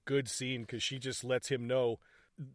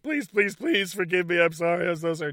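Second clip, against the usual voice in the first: mock pleading; 3 semitones higher, 5 dB louder than usual.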